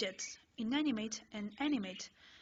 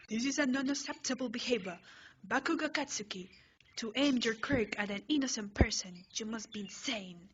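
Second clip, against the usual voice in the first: scolding yell; 3 dB louder than usual. Acted. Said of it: "Ida yells".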